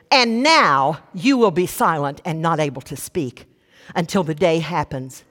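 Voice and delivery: imitating a frosty, measured rebuke; a little frosty. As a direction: pronounce it coolly, pitch sinking to the end. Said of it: "Gabriel gets a little frosty".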